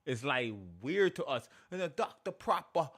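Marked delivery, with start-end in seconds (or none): 2.0-2.9 light mock British accent, higher; mock proper British. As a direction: lightly mimic proper London talk. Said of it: "while you're talking proper".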